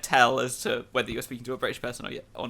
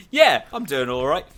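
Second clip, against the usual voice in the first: louder opening on "Yeah"; casual yeah reply; 6 dB louder than usual. Retold or imitated. Host mimicking his own annoying habit, casual yeah reply. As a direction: punch "Yeah" and run on casually. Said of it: "gets on my nerves when I'm just like".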